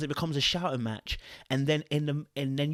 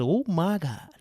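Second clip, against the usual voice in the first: high, loud, drawn-out gleeful exclaim; excited reaction; 8 semitones higher, 6 dB louder, slower than usual. Retold or imitated. Reacting to the comment's opener, high and gleeful. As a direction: relish it, voice up high and slow. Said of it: "I said".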